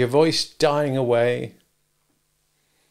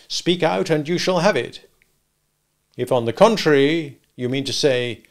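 louder, clipped warning from a hard lawyer; stern lawyer; 4 semitones higher, 4 dB louder than usual. Acted. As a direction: lay down terms like a cold attorney. Jaggers warns Joe.

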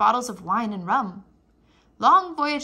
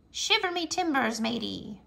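pirate voice; 3 dB quieter than usual. Acted. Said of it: "Talk Like a Pirate".

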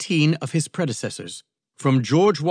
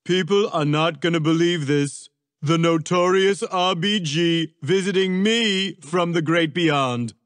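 excited exclamation, higher; Trump exclaiming; 6 semitones higher, 4 dB louder than usual. A narrator's reading. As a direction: exclaim it like a boastful celebrity. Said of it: "Trump exclaimed".

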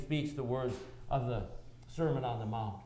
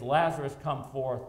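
calling out; 5 dB louder than usual. Acted. Jesus calls dead Lazarus out.

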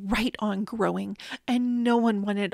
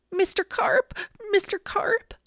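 yelled; 9 semitones higher than usual. A narrator's reading. Boy calls to Mister Carp underwater, high yell. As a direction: call out for someone out of sight. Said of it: "I yelled".

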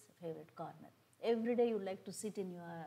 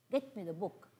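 louder, clipped-off order; curt command; 5 dB louder than usual. Shown as a demonstration. Teacher demoing a rude request, curt command. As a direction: bark it like a demand. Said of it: "How is it sounding?".

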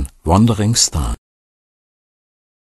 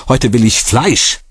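mild shout; 5 semitones higher than usual. A narrator's reading. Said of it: "schrie ich".

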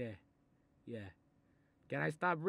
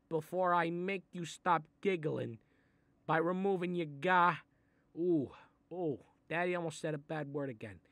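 angry threat; 3 semitones higher, 4 dB louder than usual. Acted. Mobster threatening giggling kid.

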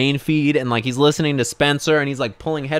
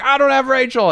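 very high mock scream; 5 dB louder than usual. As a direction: scream back in exasperated imitation. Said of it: "just them screaming".

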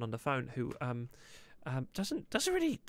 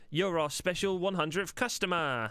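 raised pitch, slow drawn-out announcing call; loud announcement demo; 6 semitones higher, slower than usual. Shown as a demonstration. Boss showing Larry the warning signal, loud announcing call. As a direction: call it out slowly like a prize announcement. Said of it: "uh, very loudly go".

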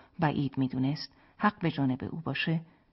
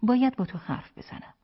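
higher, more pressing request; insistent repeat; 8 semitones higher, 4 dB louder than usual. A narrator's reading. Wife repeats her request to her husband, insistent. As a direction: press the point, pitched up. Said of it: "او تکرار کرد".

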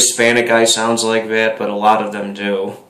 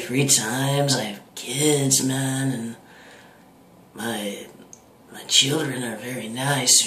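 lightly held stoner voice, drifting softer; Cheech Marin impression; 4 dB quieter than usual. A lightly held Cheech Marin voice rambling about life, fading softer. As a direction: mumble on like a tired laid-back dude. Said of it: "here's my Cheech Marin voice".

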